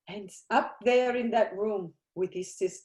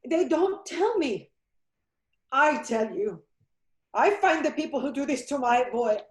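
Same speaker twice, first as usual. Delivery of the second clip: grief-stricken rage. Acted. Mother vows revenge for her son.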